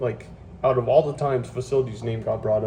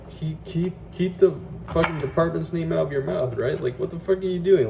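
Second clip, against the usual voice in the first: raised, heated pitch, cursing in frustration; venting hard, voice pitched up; exasperated rant; 6 semitones higher than usual. Retold or imitated. Griping to the camera about the site leader, heated and exasperated. Venting at coworker mentioning department.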